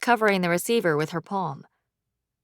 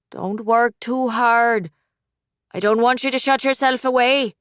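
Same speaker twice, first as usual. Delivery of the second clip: doting mother; 4 semitones higher, 3 dB louder than usual. Acted. Mother relieved to hear her son, doting and fussing. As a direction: fuss over him like a worried mum.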